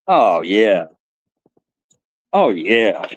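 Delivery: low, slow puppet growl; a lightly voiced puppet getting going; low mock-sinister puppet. Puppet voice intro.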